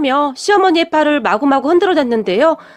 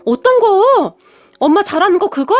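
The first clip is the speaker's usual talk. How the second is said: fussing excitedly; 4 semitones higher than usual. Acted. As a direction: pester mom with breathless excitement. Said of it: "호들갑까지 떨면서 물었어요". (호들갑 떨며 들뜬 목소리)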